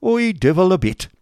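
loud, high testy snap; testily. A narrator's reading. Schoolmaster brushing off the boy, testy and loud. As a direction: brush him off with irritation. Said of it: "replied Squeers testily".

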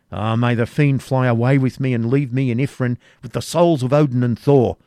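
impatiently. Acted. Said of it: "answered Cedric impatiently".

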